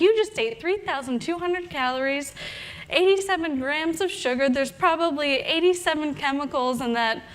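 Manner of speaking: a touch of outraged disbelief; mock upset. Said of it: "I'm getting so upset with this woman".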